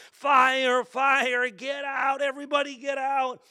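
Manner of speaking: high, loud retold fire alarm cry; screaming and yelling. Preacher reliving his fire warning to the household, yelling. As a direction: yell to clear everyone out, acted out. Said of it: "I'm screaming, yelling".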